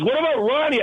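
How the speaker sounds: high alarmed question; sudden realization. Retold or imitated. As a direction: it just hit him. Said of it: "he goes".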